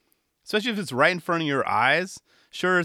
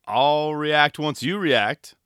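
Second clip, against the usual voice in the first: voicing Neckface; 3 semitones higher, 6 dB louder, much slower than usual. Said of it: "he's giving us the look of".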